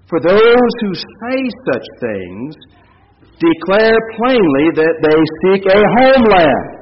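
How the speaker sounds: very slow, measured scripture reading; slow deliberate reading. Acted. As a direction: let every word land slowly.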